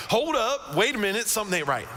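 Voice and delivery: high, startled double take; sudden realization. Retold or imitated. Ananias realizing who Saul is, startled and high. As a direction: catch yourself as it dawns on you. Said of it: "all of a sudden it clicks".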